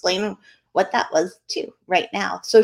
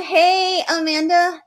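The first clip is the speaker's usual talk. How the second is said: cheerful greeting; 7 semitones higher, slower than usual. Real, not acted. Greeting viewers by name.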